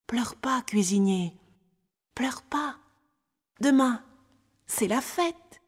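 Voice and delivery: put-on tender consoling child. A narrator's reading. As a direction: comfort someone crying, as a little boy. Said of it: "et tendrement". (petit garçon qui console tendrement)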